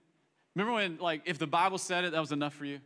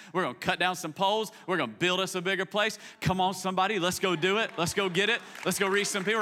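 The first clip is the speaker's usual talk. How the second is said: rising, rallying hype for the plan; fired-up team pitch. Retold or imitated. Prophets hyping up Elisha about the Jordan, rallying. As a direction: sell the plan with growing fire.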